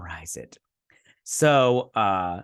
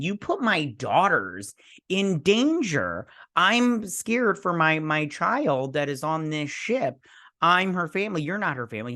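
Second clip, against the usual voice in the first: imitating a worried dad's protest, higher pitched; mildly upset father; 5 semitones higher than usual. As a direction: retell an upset father's plea, lightly acted. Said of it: "he's upset".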